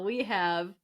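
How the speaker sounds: slow, booming big-name introduction; grand announcer finish. Acted. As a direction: drag out the name like a ring announcer. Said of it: "read it like an announcer".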